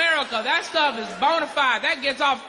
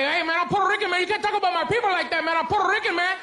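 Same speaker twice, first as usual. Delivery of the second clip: higher-pitched, mildly offended protest; lightly acted, hurried indignant complaint; mock indignant; 3 semitones higher, faster than usual. Offended Puerto Rican objecting to the comedian, mock indignant. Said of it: "Puerto Ricans always get mad".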